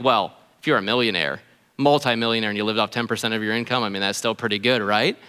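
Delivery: imagined listener. Retold or imitated. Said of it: "And you might think".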